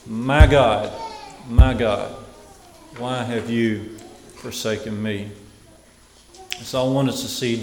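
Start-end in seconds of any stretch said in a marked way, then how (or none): 0.1-5.3 solemn cry, loud at first, then easing; restrained imitation of crying out to God; cried-out quote. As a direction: read it as a measured cry, strongest on the first words. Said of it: "we see a cry".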